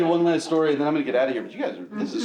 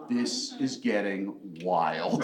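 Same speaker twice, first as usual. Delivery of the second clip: put-on amazed kid; 7 semitones lower, 6 dB quieter, much slower than usual. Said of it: "I was like".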